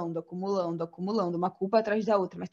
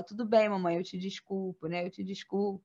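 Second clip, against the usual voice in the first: put-on soft forgiving child; 2 semitones lower, 6 dB quieter than usual. Child's quote forgiving mother.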